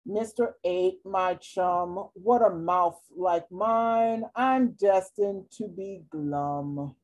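resigned and mopey; glum fish. Acted. Sulking fish answers the octopus, slow and glum.

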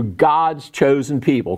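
slow, sarcastic air quotes around God's chosen people; ironic quote. Shown as a demonstration. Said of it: "quote unquote".

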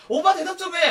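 high, loud plea for attention; nagging partner. Acted. Nagging a boyfriend for an answer.

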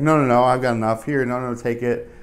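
loud playful insistence; mock insistent refusal. Acted awkward gift exchange.

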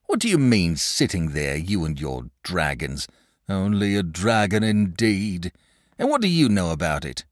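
a shepherd spinning a spooky tale by the fire; old shepherd. Acted. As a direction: tell it like a wary old country shepherd. Father voiced in read story.

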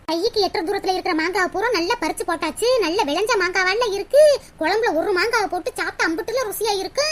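low-pitched private musing; aside to herself. Acted. Talking to herself about the mangoes.

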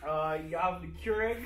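lightly put-on Caribbean accent. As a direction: tour guide in a mild Caribbean lilt. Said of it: "Can you do it in the accent?".

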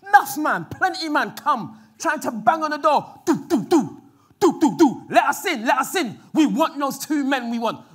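bang on the door and demand; mob yelling. Retold or imitated. Baying crowd at Lot's door, loud demanding shout. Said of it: "And the crowd was like".

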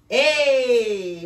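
big booming sea monster hello. Acted. Sea monster greets the pirates with a booming hey. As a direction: boom it out like a friendly sea monster. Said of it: "booms the monster".

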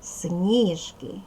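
СНІжки, first syllable stressed; сніжки drawn out with the beat on the і; model stress of сніжки. Shown as a demonstration. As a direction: say сніжки slowly, leaning on СНІ. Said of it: "Тільки так вимовляти це слово".

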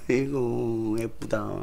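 soft, weary adoration; gently acted fondness; tender cooing. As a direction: coo over a newborn, imitating the new mother. Mother adoring her newborn.

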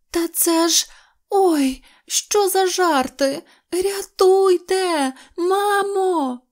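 high, loud squeal of alarm; drawn-out, high cries of fright; panicked cry for help. Acted. Mouse fleeing the drawn cat, panicked cry for help.

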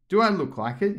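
high, rueful knave; lightly voiced sad knave. A narrator's reading. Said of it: "he said".

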